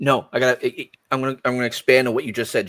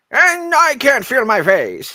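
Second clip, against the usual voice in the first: very high, loud, swooping, drawn-out cartoon villain voice; 12 semitones higher, 6 dB louder than usual. Retelling a commentator's joke during a match: Skeletor voice. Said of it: "doing the Skeletor voice the entire commentary time".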